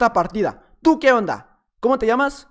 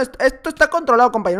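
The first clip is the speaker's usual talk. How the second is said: normal talking voice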